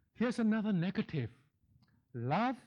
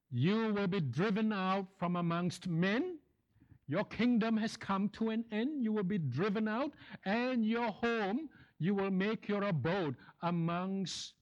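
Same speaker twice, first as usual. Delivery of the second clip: lightly voiced pronouncement of doom, pitched up; thundering heavenly voice; 3 semitones higher than usual. Preacher retelling God's judgment on the proud king, mildly thundering. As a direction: pass sentence from heaven with restrained thunder. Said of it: "a voice thundered from heaven".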